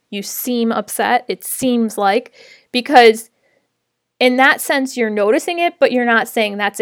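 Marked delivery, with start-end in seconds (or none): 0.1-2.3 "seem" and "seems" gently leaned on; stress on seem. Shown as a demonstration. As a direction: hold "seem" a little, leaving it open like asking. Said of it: "specifically wanna emphasize the word seem".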